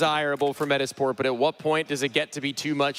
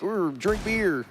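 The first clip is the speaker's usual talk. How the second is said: mock Swedish accent; 4 semitones higher, slower than usual. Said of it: "start saying things like".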